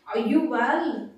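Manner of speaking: "Are you well" slow and measured, falling at the end; stretched-out teaching example of "Are you well"; question intonation demo. Shown as a demonstration. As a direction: model "Are you well" slowly, leaning on "you". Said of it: "intonation is very important".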